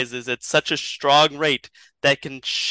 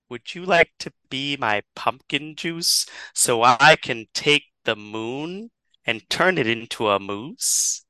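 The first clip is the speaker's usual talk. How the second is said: lightly voiced cat, slow and drawn out; talking cat. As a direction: stretch the words like a talking cat. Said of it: "the cat that meowed at them starts to speak".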